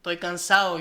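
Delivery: "cansado" with the D left out; dropped D. Shown as a demonstration. Showing a dropped Spanish D, "cansado" pronounced like cansao. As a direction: say "cansado" without sounding the D. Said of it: "I don't hear the D".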